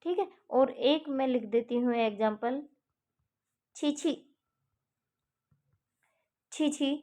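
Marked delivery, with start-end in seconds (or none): 3.8-6.9 disgust. Shown as a demonstration. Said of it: "तो ये घृणा सूचक हो गया".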